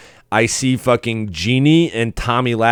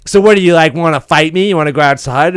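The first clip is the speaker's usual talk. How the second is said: confrontational; 5 semitones higher, 4 dB louder, faster than usual. Retold or imitated. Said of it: "she's just like".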